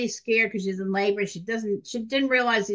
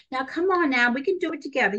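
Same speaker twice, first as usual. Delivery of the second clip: lightly voiced cheerleader, pitched up; cheerleader coaxing; 4 semitones higher, faster than usual. Young nurse coaxing a panicking adolescent in labor, lightly cheerleading. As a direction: coax them along with a touch of pep. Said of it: "you know, the cheerleader".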